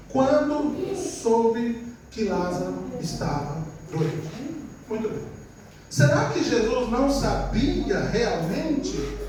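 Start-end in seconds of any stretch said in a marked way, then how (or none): 0.1-4.6 slow, weighted Bible reading; scripture reading. Real, not acted. Preacher reading the verse to the church: slow and solemn. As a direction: read the verse slowly and solemnly. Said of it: "diz o seguinte".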